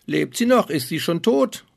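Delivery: high, loud frantic dwarf cries; panicked dwarfs. Acted. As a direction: panic over the fallen girl. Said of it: "in ihrer großen Not".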